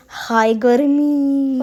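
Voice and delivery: very slow, drawn-out lazy sigh; sighing ghee. Retold or imitated. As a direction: voice the ghee moaning about the heat. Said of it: "because he was saying". (घी की आवाज़ में धीमी, आलसी आह)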